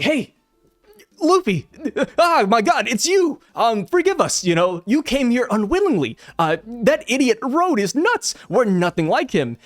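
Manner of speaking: high, eager and apologetic, rushing to say sorry; excited giantess greeting. Retold or imitated. Gerd greets Luffy, high and excited. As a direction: gush with relief at finally meeting him.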